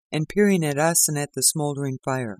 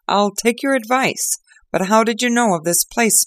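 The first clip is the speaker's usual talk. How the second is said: higher, louder earnest inspector; grateful inspector; 8 semitones higher, 5 dB louder than usual. Acted. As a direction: confide your thanks in earnest. Lestrade asks Holmes.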